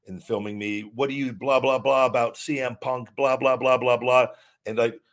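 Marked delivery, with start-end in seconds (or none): 0.8-4.3 loud, taunting blah-blah mimicry of a heckler; mocking pushy fan. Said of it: "get really loud".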